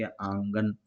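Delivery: आंगन with the n through the nose, not fully sounded; slow nasal demo. Shown as a demonstration. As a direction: let the न ring in the nose. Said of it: "उसकी आवाज़ नाक से निकलती है".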